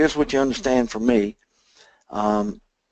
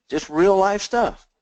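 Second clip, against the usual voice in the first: emphatic aside; 9 semitones higher, 5 dB louder, slower than usual. Acted. High slow aside.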